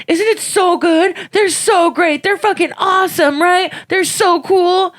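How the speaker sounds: high, loud, gushing excitement; super into it. Retold or imitated. Kid showing a cousin a favourite video, hammed-up excitement. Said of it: "like, super into it".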